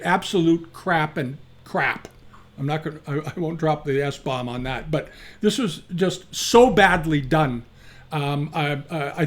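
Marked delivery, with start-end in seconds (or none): 0.0-2.1 slow, dragged-out disgust on absolute crap; ranting. Real, not acted. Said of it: "Excuse my little rant". 4.9-7.6 slow, exasperated complaint; ranting. Real, not acted. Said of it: "Excuse my little rant".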